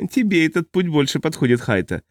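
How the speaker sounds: sneering chuckle, then taunt; mocking laugh. A narrator's reading. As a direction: jeer with a nasty little laugh. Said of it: "глумливо усмехнулся он".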